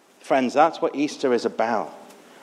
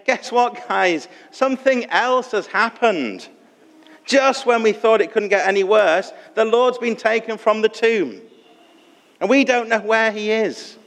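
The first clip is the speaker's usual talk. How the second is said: higher-pitched, acted distress as Mary; mild despair; 6 semitones higher than usual. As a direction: break bad news with understated despair. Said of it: "sense the despair in Mary's voice".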